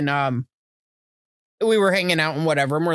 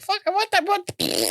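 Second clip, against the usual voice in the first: high, stunned "what the"; shocked disbelief; 13 semitones higher, much slower than usual. Retold or imitated. Retold shocked reaction, high.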